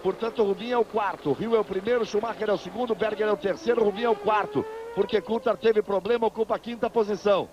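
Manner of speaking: brisk live race call; motorsport commentator. Real, not acted. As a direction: call the pit stops live, upbeat.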